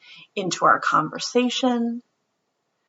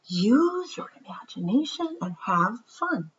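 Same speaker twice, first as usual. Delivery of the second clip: whispered; 3 semitones higher, 5 dB quieter than usual. Acted. Teacher voice, quiet ending.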